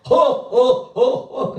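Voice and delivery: loud, high mimicked "huh, huh"; imitated laugh. Preacher showing how the missionary laughs, imitated loud bursts. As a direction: act out someone's distinctive big laugh in bursts. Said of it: "그러면 웃음이 그러거든요".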